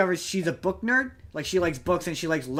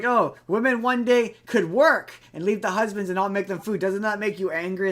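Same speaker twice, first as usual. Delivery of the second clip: louder, higher goading build; retold taunting; 5 semitones higher, 4 dB louder than usual. Retelling the son provoking the mayor, taunting. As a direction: needle him with mock provocation.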